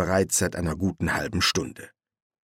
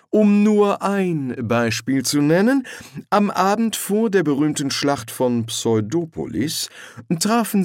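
put-on pompous old lord; 6 semitones higher than usual. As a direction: lecture with proud pomp. Lord Rust explains honour.

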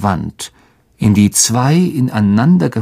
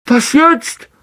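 high, helpless question; desperate. A narrator's reading. Ron stuck behind the rocks: desperate question. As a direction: ask like you see no way out. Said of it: "Rons verzweifelt klingende Stimme".

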